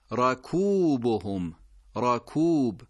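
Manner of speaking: راکوبهم slowly with an open first vowel; careful recitation. Shown as a demonstration. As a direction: say راکوبهم with a clear fatha. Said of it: "نه خیر، فتحه داره".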